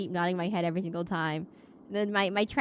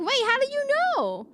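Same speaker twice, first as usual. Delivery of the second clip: shocked question; 4 dB louder than usual. Retold or imitated. Telling her mom, shocked she knows the murderer. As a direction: voice jumps way up in disbelief. Shocked reply to mom's spoiler.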